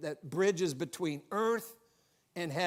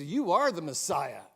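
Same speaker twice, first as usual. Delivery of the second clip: mildly astonished, rising into the question; startled amazement; 4 semitones higher, 4 dB louder than usual. Acted. Nathanael realises Jesus saw him under the tree, mildly startled. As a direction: play a touch of startled disbelief. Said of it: "it startled him".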